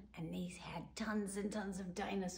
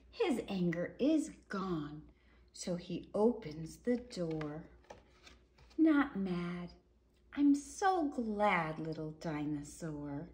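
gentle storybook ending, slowing on glad; reading to children; 3 dB louder, slower than usual. A narrator's reading. Reading the happy ending to children, gentle and slow. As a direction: soothe the listener at the end of the story. Reads picture book aloud.

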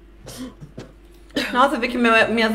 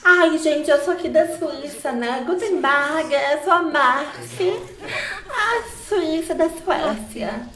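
higher, slow, laughing put-on voice; lightly hammed-up foreign lady; mock Swiss lady voice; 5 semitones higher, slower than usual. Playful Swiss character intro.

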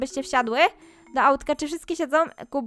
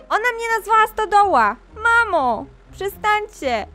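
put-on complaining child voice; 4 semitones higher than usual. Doll daughter complains to mom.

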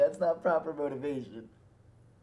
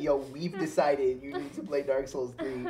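laughing; 5 semitones lower than usual. Retold or imitated. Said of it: "I'm gonna text him and be like".

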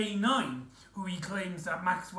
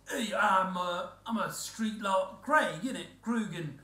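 b-movie acting. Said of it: "He's got this nineteen fifties voice going on".

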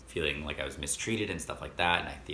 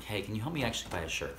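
soft, slightly raised friendly request; super nice; 4 semitones higher, 5 dB quieter than usual. Retold or imitated. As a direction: imitate yourself asking extra nicely. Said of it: "I'm super nice".

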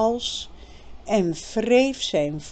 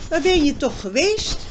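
put-on higher, louder girl's worried question; lightly voiced anxious girl; Birgit voice; 7 semitones higher, 5 dB louder than usual. A narrator's reading. Birgit asks worried narration.

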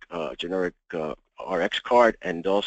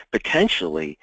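"potentially" set apart and pressed; stress on potentially; 3 semitones lower than usual. Real, not acted. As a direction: lean firmly on the word "potentially". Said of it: "I emphasize the word potentially".

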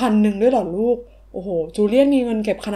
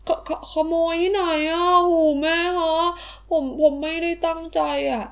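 scared stammer; 5 semitones higher than usual. Acted. ลูกถูกแม่คาดคั้นเรื่องเงิน.

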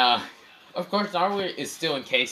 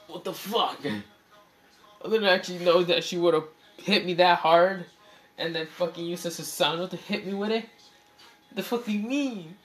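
high-pitched outraged whine; 7 semitones higher than usual. Acted. Kasami complaining after being hit.

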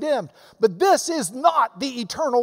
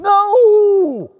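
loud, higher, outraged no; shouted no; 9 semitones higher, 8 dB louder than usual. Real, not acted. Preacher rejecting the idea that the resurrection matters little, shouted no. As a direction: blast it to the back pew.

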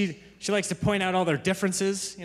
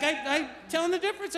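put-on higher childlike explanation; imitating little girl; 9 semitones higher than usual. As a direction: play a toddler defending herself. Daughter explaining herself.

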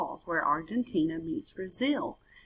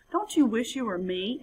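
high, dismissive sing-song; smug frog; 4 semitones higher than usual. Acted. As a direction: brush it off with smug pity. Frog taunts toucan.

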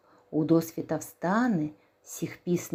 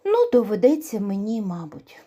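resigned sigh; 3 semitones higher, 4 dB louder than usual. Acted. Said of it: "подумав півник та й каже".

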